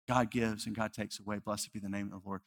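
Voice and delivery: a quiet, reverent echo of her words; hushed echo. Acted. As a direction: let it fall away to near silence. Echoing widow's words.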